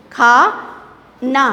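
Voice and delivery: खा and ना said as separate syllables with pauses. Shown as a demonstration. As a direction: split खाना into खा, pause, ना. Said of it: "आ की मात्रा, फिर ना". (खाना को खा और ना में अलग-अलग बोलना)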